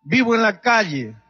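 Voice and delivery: anguished confession. Retold or imitated. The drunk man pours out his grief to the pastor, anguished and pleading. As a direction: confess thirty years of drinking with rising anguish.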